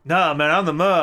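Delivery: put-on Cockney accent. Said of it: "a very specific Cockney accent".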